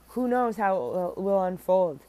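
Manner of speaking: hiccups breaking the words; speaking through hiccups. Real, not acted. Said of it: "I have hiccups".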